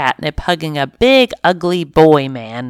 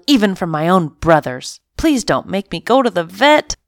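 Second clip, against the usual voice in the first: panicky pleading; 3 semitones higher than usual. Acted. Cat panicking about vet trip.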